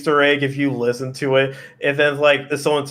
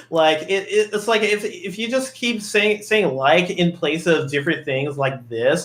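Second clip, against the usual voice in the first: put-on high, airy Valley Girl talk; Valley Girl accent; 4 semitones higher than usual. Shown as a demonstration. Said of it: "talk like this".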